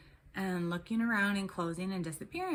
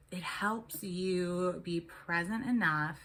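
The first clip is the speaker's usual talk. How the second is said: slow, breathy aside; much slower than usual. Real, not acted. Explaining meditation calmly.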